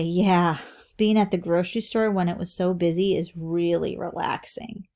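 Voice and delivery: dry sarcasm; mildly sarcastic example. Shown as a demonstration. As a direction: say it meaning the exact opposite. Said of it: "You could hear that in my voice".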